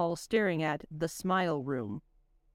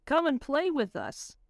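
slow, higher eerie robot chant; a creepy singsong invitation; robot shriek; 7 semitones higher, slower than usual. Acted. Robots calling after the fleeing kids, slow, higher and eerie. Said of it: "the robots shrieked".

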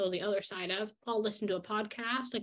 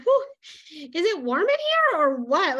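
flirty tease; 6 semitones higher, 7 dB louder than usual. Retold or imitated. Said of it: "the nerd in me who loves reading books is like".

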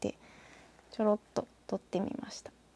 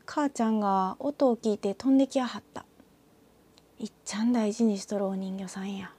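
picture-book narration in Kansai dialect; storytelling read. Shown as a demonstration. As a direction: read it like a Kansai folk tale, phrase by phrase. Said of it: "物語調に読むと、こんな感じになります".

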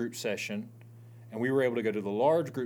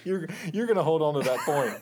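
laughing, higher-pitched tease; amused disbelief; 4 semitones higher, 4 dB louder than usual. Real, not acted. Co-host teases about clinging to the joke, laughing. Teasing over the running joke.

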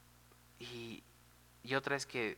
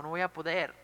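high, louder retold lament; mock tearful despair; 5 semitones higher, 5 dB louder than usual. Psique facing an impossible task, mock despairing cry. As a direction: imitate a distressed wail without real tears. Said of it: "se puso a llorar".

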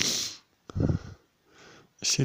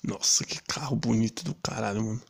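hushed awed whisper; 4 dB quieter than usual. Retold or imitated. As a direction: breathe it out in awe. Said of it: "do tipo".

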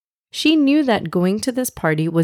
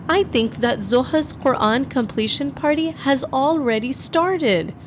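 put-on higher-pitched, fretting girl voice; frustrated child; 5 semitones higher than usual. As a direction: complain to the family like a frustrated kid. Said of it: "Noor's frustrated feelings were spilling out".

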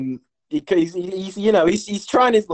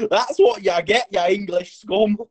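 higher mock taunt, slowing at the end; talking horse; 4 semitones higher than usual. Horse taunting the kicked-off Englishman, mock jeer. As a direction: jeer as the horse, drawing out the last words. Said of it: "And the horse just goes".

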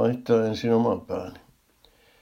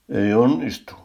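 loud, higher-pitched yell back; shouted retort; 4 semitones higher, 6 dB louder than usual. A narrator's reading. Another shopper refuses the distance order, shouting back. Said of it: "huusi toinen".

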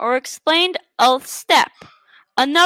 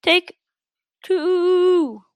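slow, higher dove coo; soft cooing; 4 semitones higher, much slower than usual. Acted. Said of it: "The dove cooed softly".

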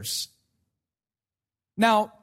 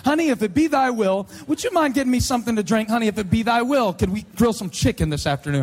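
teasing prayer talk to a spouse; lightly hammed-up formality; mock-formal request. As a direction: put pious phrasing on a household request. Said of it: "You talk like that all the time".

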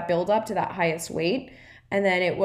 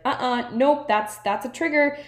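higher and louder, an inner alarm going off; 6 semitones higher, 4 dB louder than usual. Retold or imitated. Her self-sabotage radar warning her, higher and louder. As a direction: sound the alarm at the first hint of weight loss. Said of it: "my self-sabotage radar would go off and be like".

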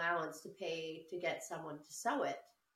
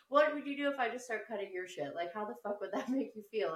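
mock angry; 3 semitones higher than usual. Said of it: "So I was so mad".

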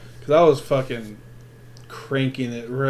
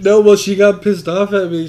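louder, higher, laughing through it; 6 semitones higher, 8 dB louder than usual. Real, not acted. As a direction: laugh out the complaint about the wife. Laughing while retelling.

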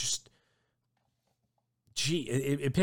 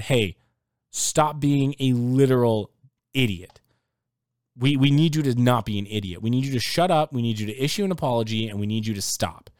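stern team talk; 4 dB louder than usual. Retold or imitated. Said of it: "The team went in and said".

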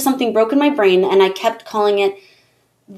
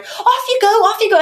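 high, sing-song British usher; high train-platform call; chirpy usher; 13 semitones higher than usual. Retold or imitated. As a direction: shoo the kids along brightly. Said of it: "and I'd be like".

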